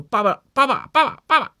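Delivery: high, loud pleading cries of daddy. Acted. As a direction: wail daddy like a begging child. Teaching to call tiger daddy.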